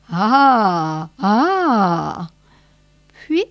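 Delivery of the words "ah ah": admiring sighs. A narrator's reading. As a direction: breathe out two ahs of wonder. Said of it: "se murmurant des". (des ah ravis murmurés)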